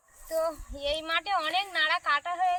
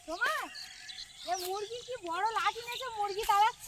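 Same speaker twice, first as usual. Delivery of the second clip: to someone hard of hearing; 5 semitones higher than usual. Real, not acted. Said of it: "ওই জন্য আমি জোরে জোরে বলছি".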